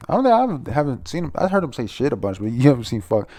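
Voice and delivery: loud, high, hyped reaction; loud excited disbelief. Real, not acted. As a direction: blurt it out amazed.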